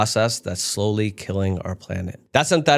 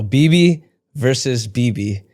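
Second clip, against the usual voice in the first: slow announcer; slower than usual. Pretend. Announcing fight headline.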